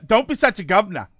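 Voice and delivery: hammed-up, quick bad British accent; mock Cockney British, rattled off fast; terrible British accent. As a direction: put on a deliberately awful British accent. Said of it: "the terrible British accent".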